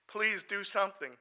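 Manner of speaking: slow, high, loud begging; drawn-out desperate plea. Retold or imitated. Begging God to help a friend, slow loud plea. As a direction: stretch each word, pleading harder. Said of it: "talk to God at the same time".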